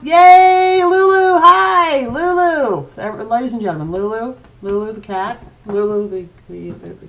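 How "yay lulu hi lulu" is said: high, loud sing-song to the cat; excited cat greeting. Real, not acted. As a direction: squeal hello to the pet.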